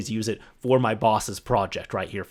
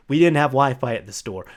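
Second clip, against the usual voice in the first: "didn't" leaned on in a repeat; emphatic repeat. Real, not acted. Telling listeners about no Wi-Fi, emphatically repeating. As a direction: say it over, leaning on "didn't". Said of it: "I'm saying that multiple times".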